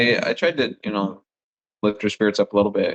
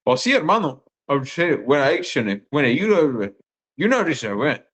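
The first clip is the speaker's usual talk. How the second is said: imitating a friend's nonsense replies; higher-pitched gibberish, playing along with a drunk; mock blabbering; 4 semitones higher than usual. Elder Halls answering the drunk guy, imitated blabbering. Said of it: "him just blabbering. He also started being like".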